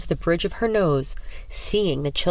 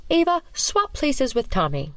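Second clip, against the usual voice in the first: sinister teacher; 7 semitones higher than usual. Acted. Teacher mocks with cold classroom.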